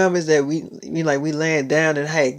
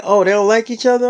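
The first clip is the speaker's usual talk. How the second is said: higher, louder, quick rising question; surprised question; 4 semitones higher, 4 dB louder, faster than usual. Retold or imitated. Girlfriend surprised to learn the two actresses feud. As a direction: sound caught off guard by the news.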